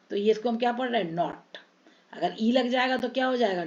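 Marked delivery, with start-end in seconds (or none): 1.1-1.6 "नॉट" with a short open ऑ, softer and lower; short vowel. Shown as a demonstration. Teacher contrasting words without final e, short vowel. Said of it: "इसके पीछे ई नहीं है".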